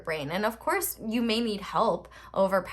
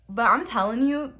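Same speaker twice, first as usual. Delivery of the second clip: burping; 2 semitones higher, 4 dB louder than usual. Real, not acted. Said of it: "sorry, I'm burping".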